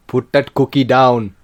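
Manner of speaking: slow, low Arnie voice; Arnold Schwarzenegger impression. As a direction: growl it like Arnie. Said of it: "Can you do one?".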